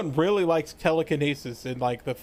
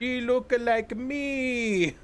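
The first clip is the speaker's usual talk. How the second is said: higher, slow mock Elena voice; 8 semitones higher, much slower than usual. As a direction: echo it as a dazed Elena, drawn out. Mimicking Elena, echoing S1.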